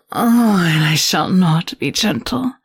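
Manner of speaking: menacing temptress toying with her captive; sultry seductress. Acted. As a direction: purr each threat like a caress. Seductive captor teases hero.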